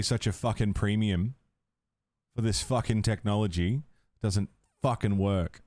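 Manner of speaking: sarcastic mock praise souring into annoyance; fed-up sarcastic rant. Real, not acted. Sarcastic rant at broken gear.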